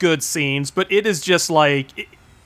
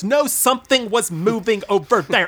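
mock bickering girls; 3 semitones higher than usual. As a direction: play a girl insisting she saw something.

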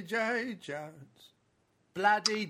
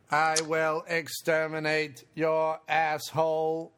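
Dalek voice; slower than usual. Acted. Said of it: "the Dalek".

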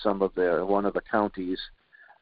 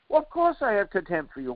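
higher, incredulous mocking tone; mock high reply; 10 semitones higher than usual. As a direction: toss it off as an amused sneer. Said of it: "mock reply as Biden".

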